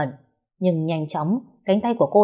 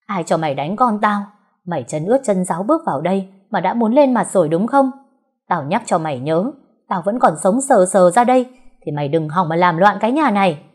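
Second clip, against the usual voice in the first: louder, building on threats; angry threat; 2 semitones higher, 4 dB louder than usual. Acted. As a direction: lay down the law furiously. Mother threatening Mận.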